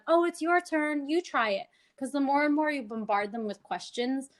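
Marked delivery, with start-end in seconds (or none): 0.1-1.7 put-on encouraging child. Shown as a demonstration. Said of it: "I try to tell the child".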